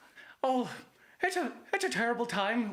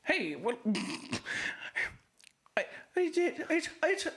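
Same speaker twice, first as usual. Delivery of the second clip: put-on Irish accent.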